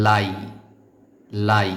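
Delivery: লাই given as the answer, clearly said; model pronunciation. Shown as a demonstration. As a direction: say লাই crisply for students to repeat. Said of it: "আমার আগে বলতে পারেন কিনা". (লাই উত্তর হিসেবে স্পষ্ট)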